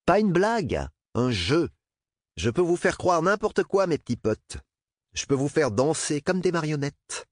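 high, mocking gloat. A narrator's reading. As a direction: crow over them. Peter gloating taunt.

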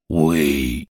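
calm and even, not hurried; calm flat machine yes; placid. Acted. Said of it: "répondit Blaine avec placidité".

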